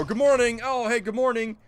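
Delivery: light, pretend morning pleasantries; chirpy mock greeting. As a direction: imitate greeting coworkers on arrival. Acts out greeting coworkers.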